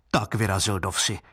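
plain reading voice

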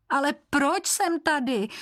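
put-on lost boy pleading with the keeper; despairing. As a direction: ask it in mild despair. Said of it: "zoufale vydechne Martin".

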